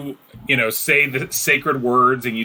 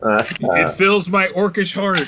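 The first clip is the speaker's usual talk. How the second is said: slow, higher orc voice; smitten orc; 6 semitones higher, slower than usual. Acted. Orc moved by the elf's voice, slow smitten delivery. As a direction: declare it slowly as a lovestruck orc.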